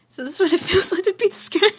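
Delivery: high, loud hushed gasp with a laugh in it; mock scared. Character alone in the office, hammed-up fright. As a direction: play at being spooked, half laughing.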